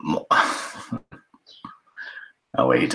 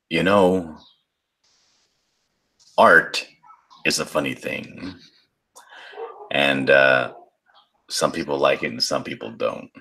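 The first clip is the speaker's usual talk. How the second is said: smoker's rasp. Pretend. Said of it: "my sixty-year-old smoker's voice".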